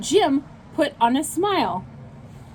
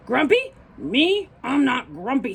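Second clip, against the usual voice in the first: indignant denial; 3 semitones higher than usual. Acted. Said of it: "said Jim".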